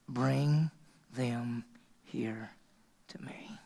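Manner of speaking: fading from soft to a whisper; hushed. Acted. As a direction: draw them in, dropping to a breath on "to me". Now watch the key.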